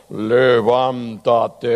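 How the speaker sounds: slow, drawn-out booming command; deep voice of God. Pretend. Pastor voicing God calling Lazarus, slow and drawn-out. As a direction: call the dead man up like God himself. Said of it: "busqué yo el tono más grave".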